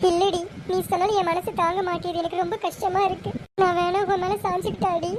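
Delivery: mildly tearful, aching voice. Acted. Sister asks to lean on the younger, tearful. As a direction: plead for comfort, close to crying. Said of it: "அக்கா அழுகாத".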